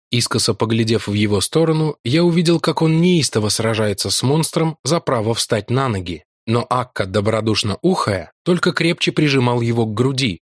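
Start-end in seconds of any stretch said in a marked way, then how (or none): none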